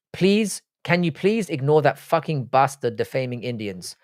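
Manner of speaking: put-on half-slipped Indian accent, pleading; partial Indian accent. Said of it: "said that in an Indian accent, um, or partial one".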